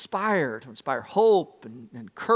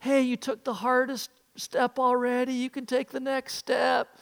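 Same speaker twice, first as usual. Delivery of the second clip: encouraging; 7 semitones higher than usual. Retold or imitated. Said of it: "they're so encouraging".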